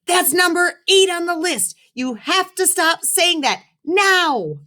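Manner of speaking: put-on high-pitched young boy pleading; high kid voice. A narrator's reading. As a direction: play the embarrassed kid, voice up high. Kid narrator voices himself.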